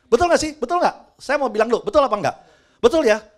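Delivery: preacher pushing the congregation to answer; rallying call. Real, not acted. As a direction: demand a response from the room.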